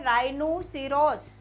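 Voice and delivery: राइनोसेरॉस slowly, starting on a plain R; drawn-out राइनोसेरॉस with no H after the R; silent H. Shown as a demonstration. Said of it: "एच बोला क्या".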